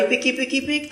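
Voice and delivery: soft fluttering squeak. Acted. Little angel flies back to heaven, high fading squeak. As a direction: let the angel flutter off quietly.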